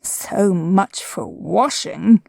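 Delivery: slow gloomy donkey mutter; gloomy Eeyore. A narrator's reading. Eeyore sulking as Roo falls in. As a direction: let it sink like a sulky old donkey. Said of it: "said Eeyore".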